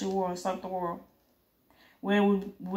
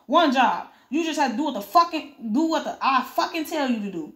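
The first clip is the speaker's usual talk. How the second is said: higher, stumbling angry rant; furious scolding; 4 semitones higher than usual. Acted. A boss berating a henchman who botched one job, furious. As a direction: lose your temper mid-sentence.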